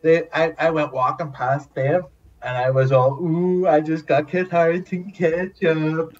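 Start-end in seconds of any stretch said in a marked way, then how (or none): 3.2-6.2 smug boast. Retold or imitated. Bragging to his mates.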